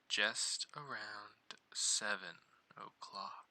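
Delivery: slow, hushed ghost-story narration; creepy storyteller voice. Acted. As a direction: whisper it like a scary tale. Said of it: "Get the creepy voice in".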